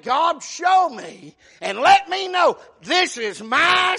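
high, slow, emphatic plea; fervent preaching. Acted. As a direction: cry it out to God as a confession. Preacher acts David's fervent plea.

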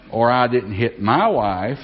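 MY lifted, slow and deliberate; a slow demo leaning on my; stress on MY. Shown as a demonstration. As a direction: hit the word my. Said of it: "emphasis in the way I said that".

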